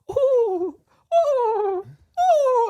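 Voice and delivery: high, strained laughing oh oh oh; masseuse's laughing cries. Retold or imitated. Masseuse laughing at the naked client, high laughing squeals.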